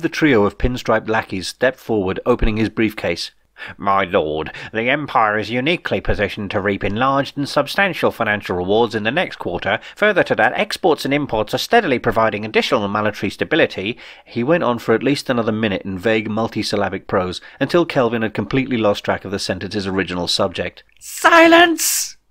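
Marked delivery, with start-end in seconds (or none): 3.8-14.0 a lightly voiced, pompous bean counter; droning accountant. 21.0-22.2 high, loud yell of "Silence!"; angry yell. Acted. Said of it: "he yelled again".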